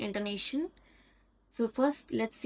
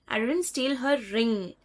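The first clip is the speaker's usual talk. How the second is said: "ring" emphasized at the end; stress on RING. Shown as a demonstration. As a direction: save the weight for "ring". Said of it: "but something else of hers".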